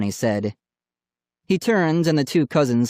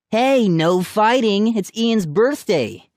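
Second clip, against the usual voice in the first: mock scolding; 9 semitones higher, slower than usual. A narrator's reading. Cousin teasing, mock scolding.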